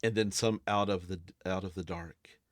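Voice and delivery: slow, measured, suspenseful scene-setting; game master narration. A narrator's reading. Game master reveals creatures coming out of the dark, suspenseful narration. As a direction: draw out the monsters' arrival.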